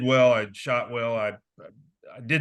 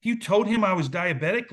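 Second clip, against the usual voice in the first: aghast disbelief; 6 semitones higher than usual. Retold or imitated. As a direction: sound horrified at what mom said. Son reacting to mom's blunder.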